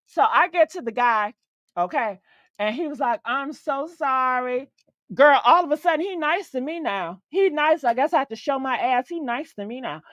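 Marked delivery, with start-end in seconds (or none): 3.2-4.7 slow, softened mock apology; apologetic. Man apologizing to an upset customer, slow apologetic imitation. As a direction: imitate a drawn-out, gentle apology.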